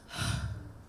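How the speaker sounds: audible release of breath; breathless sigh. Shown as a demonstration. Coach out of held breath, sighing it out. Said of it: "you'll feel that you're restless".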